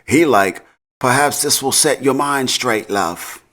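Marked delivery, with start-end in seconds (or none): 1.0-3.4 a hammed-up, lightly done British accent, higher on the first part; bad British accent. The speaker mimics Noma's threat in a bad British accent. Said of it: "but in a bad British accent".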